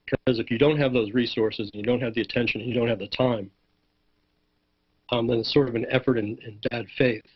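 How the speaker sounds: hoarse, voice giving out. Real, not acted. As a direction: push words through a hoarse voice. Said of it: "I'm losing my voice here".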